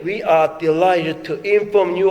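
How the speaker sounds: drawn-out, chanting announcement; slow reading. Retold or imitated. Father reading his daughter's acceptance email, slow and sing-song. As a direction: savour every word of the good news. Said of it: "딸의 이메일에".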